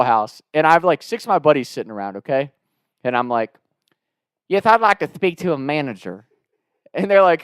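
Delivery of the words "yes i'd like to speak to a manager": lightly hammed-up Southern twang. Prank caller asks for the manager, Southern twang. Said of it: "this Southern twang".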